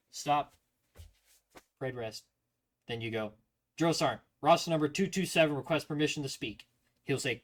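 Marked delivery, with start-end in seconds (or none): 3.8-6.7 crisp, fast, formal report to a superior; formal military address. Shown as a demonstration. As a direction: rattle it off at parade rest. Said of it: "The way you do it is you properly".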